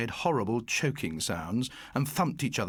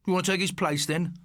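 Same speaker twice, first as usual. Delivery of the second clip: raised, challenging question; demanding; 5 semitones higher than usual. Acted. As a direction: dare him to step in. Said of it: "Morris demanded".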